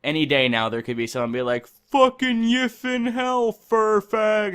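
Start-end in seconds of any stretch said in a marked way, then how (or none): 1.7-4.5 high, loud, slow jeering insult; mock troll voice. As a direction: sneer it like an internet troll. Imitating a hateful commenter.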